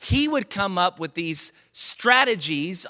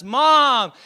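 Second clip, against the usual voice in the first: high, loud imitation of a yelling kid; mock child's shout from bed; 7 semitones higher, 6 dB louder, slower than usual. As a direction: holler like a kid calling parents. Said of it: "that was yelling to us".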